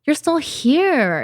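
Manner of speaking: a hint of tender welcome; gentle greeting. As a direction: greet it kindly like an old friend. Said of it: "I'm more like".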